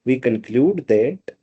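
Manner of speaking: very slow, word by word as if writing; slow dictation. Shown as a demonstration. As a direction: dictate it slowly for the notes. Dictating while writing on board.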